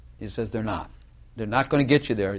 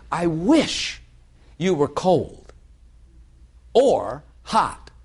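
voicing God; 4 semitones higher, much slower than usual. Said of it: "he says".

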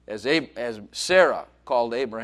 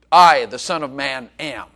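proclaiming; 8 dB louder than usual. Acted. Jesus declaring himself.

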